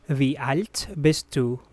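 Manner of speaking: measured teaching pace. Shown as a demonstration. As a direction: ask it clearly for a learner. Teacher repeats more slowly.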